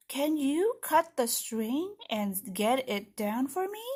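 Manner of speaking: unhurried, curious read-aloud; children's story narration. Acted. Teacher reads about finding a note for Larry, curious storytelling. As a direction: puzzle it out slowly for little listeners.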